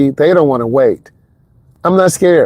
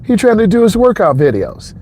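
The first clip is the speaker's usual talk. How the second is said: raised voice; 7 semitones higher than usual. Retold or imitated. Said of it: "I'm like".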